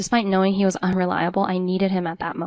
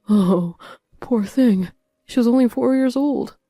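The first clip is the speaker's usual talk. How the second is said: mock crying out; 4 semitones higher, 5 dB louder than usual. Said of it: "he cried out".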